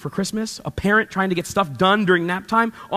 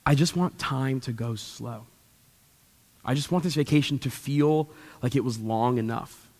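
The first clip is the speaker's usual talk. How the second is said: wistful wish; 6 semitones lower, 7 dB quieter than usual. Retold or imitated. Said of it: "my statement is always the same".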